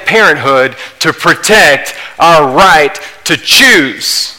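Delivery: slow, heavy, deliberate preaching; worked up. Real, not acted. Preacher to congregation on abortion, slow and fervent. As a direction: hammer each phrase slowly. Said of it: "Sorry, I'm getting a little worked up".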